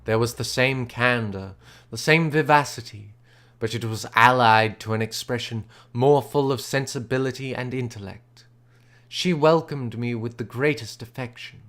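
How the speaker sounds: measured, even storytelling voice; story narration. A narrator's reading. Reader narrating Elizabeth's welcome, calm storytelling voice. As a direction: read it like a classic novel. Reads the novel aloud.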